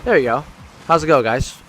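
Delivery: close-mic handheld voice; mic close to mouth. Real, not acted. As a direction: speak right into the mic. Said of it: "holding the mic up to my mouth".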